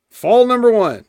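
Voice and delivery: high announcer call. Acted. Announces the fall.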